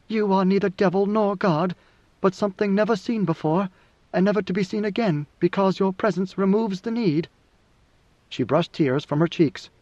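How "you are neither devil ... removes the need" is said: lightly voiced, higher feminine figure; a hint of hushed devotion, pitched up; devoted woman, reverent. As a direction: tell your lord what he is, with restrained awe.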